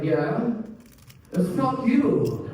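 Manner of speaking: high, slow, deliberate fuck you; high, slow payoff from the mom; spicy mom comeback. Retold or imitated. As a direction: land it like a mic drop. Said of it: "And she's like".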